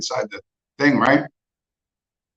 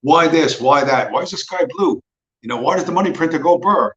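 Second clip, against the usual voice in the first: lightly mimicked pestering child, higher pitched; mock child; 4 semitones higher than usual. Speaker mocks people with a child's mind, lightly childlike questioning. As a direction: pitch it up like a kid asking why. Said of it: "You're like a child".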